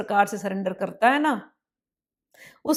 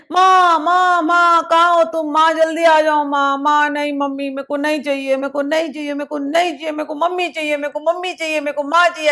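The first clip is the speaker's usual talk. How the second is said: put-on a child sobbing for his mother, refusing toys; crying child; 4 semitones higher than usual. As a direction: bawl like a toddler who wants only mom. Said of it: "ऐसा करके रोने लगता है".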